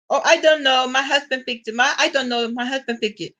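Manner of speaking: imitating a Filipina coworker with a Filipino accent, shrugging it off; coworker's Filipino accent. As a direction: lightly mimic her Filipino accent, trailing off unsure. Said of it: "you have to be able to catch the accent".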